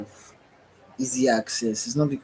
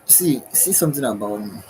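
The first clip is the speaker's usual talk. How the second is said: yawning. Real, not acted. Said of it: "Sorry about my yawning".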